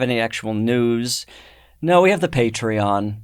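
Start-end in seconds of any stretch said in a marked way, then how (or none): 1.8-3.2 a touch of letdown; sad-sounding announcement. Real, not acted. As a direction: say it as if it were mildly sad news. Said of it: "Like it's a sad thing".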